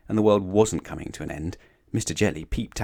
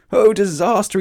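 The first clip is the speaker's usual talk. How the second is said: high, loud wail of doom; panicked scream; 12 semitones higher, 8 dB louder than usual. A narrator's reading. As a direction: scream it as utter catastrophe. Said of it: "he screamed".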